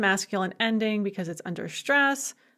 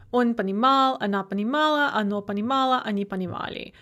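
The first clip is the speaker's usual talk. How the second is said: steady stress on the а of every понимал form; fixed stem stress; faster than usual. Shown as a demonstration. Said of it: "That stress stays fixed on the a".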